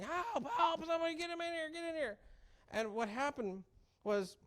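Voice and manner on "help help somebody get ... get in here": high urgent calls for help, louder; frantic cry for someone to come, much higher; retold screaming. Son in hospital bed yelling for help, high and loud. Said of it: "He's screaming".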